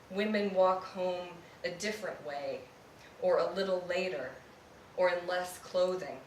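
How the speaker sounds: measured, deliberate poetry reading with pauses; poem reading. Acted. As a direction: read it like a poet at a live reading. Reads a second poem.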